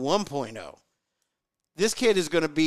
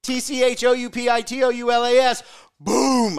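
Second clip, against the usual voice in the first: spelling aloud; 6 semitones higher, 5 dB louder than usual. Shown as a demonstration. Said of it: "Brett, spell Choptoulas".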